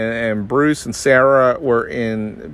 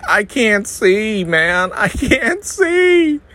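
mock panic; 9 semitones higher, much slower than usual. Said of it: "I'm like".

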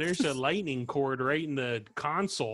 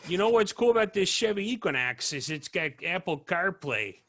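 Chicago accent; 4 semitones higher than usual. Shown as a demonstration. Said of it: "Chicago accent".

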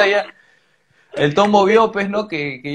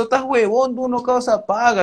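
higher, heated mock shout; retold yelling; 5 semitones higher than usual. Shouting at the cop face to face, heated mock anger. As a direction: pitch it up and tell him off. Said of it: "comienzo a gritarle".

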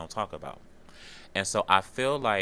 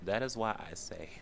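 whispered through tears; choked-up whisper; tearful whisper; 5 dB quieter than usual. Real, not acted. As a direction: barely get the words out, crying. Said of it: "I'm sorry for crying on y'all".

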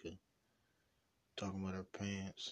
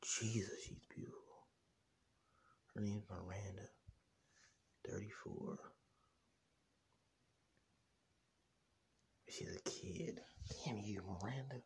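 whisper; 4 dB quieter than usual. Real, not acted. Whispering over photos.

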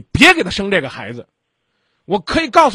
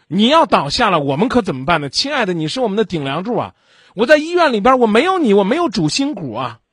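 higher and louder, pleading like a frightened wife; anguished plea; 4 semitones higher, 3 dB louder than usual. Pretend. Wife phoning her drunk husband from the hospital, anguished loud plea. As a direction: cry out that she can't cope without him. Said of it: "叫半责备、半关爱".

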